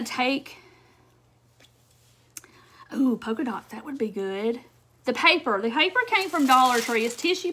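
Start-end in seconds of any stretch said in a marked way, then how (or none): 2.9-4.6 whisper. Real, not acted. Excited aside while crafting.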